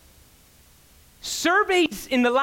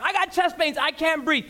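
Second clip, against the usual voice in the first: imitating a panicked patient; 7 semitones higher than usual. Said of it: "you see it all the time".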